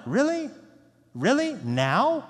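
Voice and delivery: high incredulous really, dropping on now; exasperated. Retold or imitated. Jesus to his disciples, mildly exasperated. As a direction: sound fed up and disbelieving. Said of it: "you can sense the exasperation".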